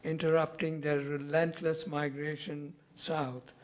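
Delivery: measured poem recital, pausing after each phrase; deliberate phrases that fall away at the close; poetry reading. Acted. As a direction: read your poem to an audience, letting each image settle. Reads own poem aloud.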